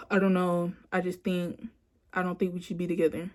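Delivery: low-key, offhand mumbled reply, imitating him; nonchalant. Woman imitating boyfriend dodging her question, nonchalant. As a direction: shrug it off as if it barely matters. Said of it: "like, nonchalant about it".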